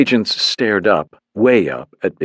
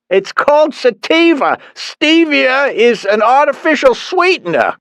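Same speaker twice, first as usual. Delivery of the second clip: Dad voice, pitched high; 4 dB louder than usual. A narrator's reading. Father correcting mother on the call, high voice. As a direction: correct her gently, pitched up.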